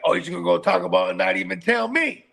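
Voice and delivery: indignant question, pitch climbing at the end. Retold or imitated. Dad left out of daughter's Taco Bell run, indignant complaint. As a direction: demand it, offended at being left out. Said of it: "I get even more irritated".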